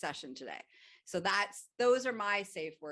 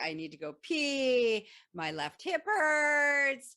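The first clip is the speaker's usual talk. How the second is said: mock complaint; 6 semitones higher, 7 dB louder, slower than usual. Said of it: "It could be like".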